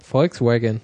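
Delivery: "Volkswagen" echoed low, English-style; mimicked mispronunciation. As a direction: copy the clip's wrong "Volkswagen". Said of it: "wie spricht man Volkswagen aus".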